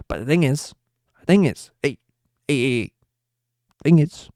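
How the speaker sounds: put-on over-the-top Italian accent goodbye. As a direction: play a loud mock Italian sign-off. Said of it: "I turned into an Italian".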